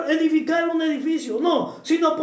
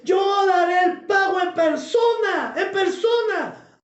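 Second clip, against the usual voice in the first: raised, slow proclamation of scripture; forceful declaiming; 4 semitones higher, slower than usual. Acted. Preacher quotes God's warning in Deuteronomy, forceful declaiming. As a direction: proclaim it high and drawn out as God's verdict.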